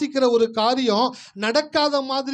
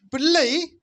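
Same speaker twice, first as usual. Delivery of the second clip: "பிள்ளை" lifted with a rising end; "பிள்ளை" set apart as a declaration; emphatic verse reading; 3 semitones higher, much slower than usual. Shown as a demonstration. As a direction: proclaim "பிள்ளை" and leave it hanging. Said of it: "நம்ம லாங்குவேஜ்ல பேசணும்".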